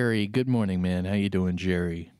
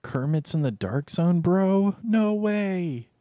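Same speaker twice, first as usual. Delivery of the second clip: rising higher and louder into disbelief; amazed fan; 10 semitones higher, 4 dB louder, slower than usual. Retold or imitated. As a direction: play the stunned viewer, climbing in pitch. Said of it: "They'd be like".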